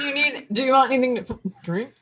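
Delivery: gagging between words; fake dry heaving. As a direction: pretend to retch while offering a drink. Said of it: "us pretend dry heave".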